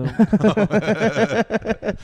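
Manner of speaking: long high giggle; high cackling laugh. Real, not acted. Laughs at president joke.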